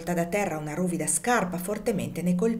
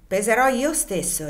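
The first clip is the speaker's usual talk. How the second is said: loaded, pointed promise, a touch higher; a veiled threat in three words; meaningful tone; 4 semitones higher, 4 dB louder than usual. Acted. Legree to the overseers, promising to weigh it himself, pointedly. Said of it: "con accento significativo".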